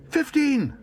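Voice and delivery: squealing high, loud bid; wild shout. A narrator's reading. Paddington bidding wildly against himself, shouting. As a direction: blurt it at full pitch. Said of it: "shouted Paddington wildly".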